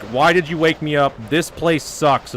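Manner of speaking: lightly acted wailing complaint; hammed-up tearful protest; mock crying. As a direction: complain like a mock crybaby, dragging the end. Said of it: "they're fucking crying".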